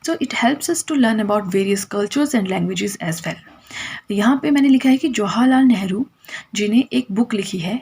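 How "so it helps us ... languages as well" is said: very slow, word by word for notes; slow dictation. Shown as a demonstration. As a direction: repeat it slowly so they can write it down. Teacher repeating dictated note.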